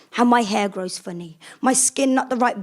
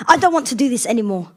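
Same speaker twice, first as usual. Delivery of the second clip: whiny; 4 dB louder, faster than usual. Acted. Niece giving up.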